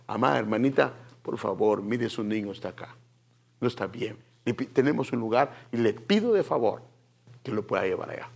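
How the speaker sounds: low, very soft, discreet voice; hushed polite request. Acted. Levite asking a mother to move her child, hushed. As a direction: ask gently under the level of the worship. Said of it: "se lo dice con voz bajita".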